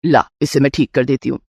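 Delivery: a doting mother-in-law offering a gift. Acted.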